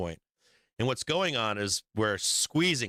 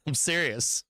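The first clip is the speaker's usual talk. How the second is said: laughing; 4 semitones higher, slower than usual. Real, not acted. Laughing while insisting.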